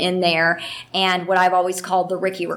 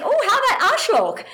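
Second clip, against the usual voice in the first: laughing; 13 semitones higher, faster than usual. Retold or imitated. Suggesting a German swear word.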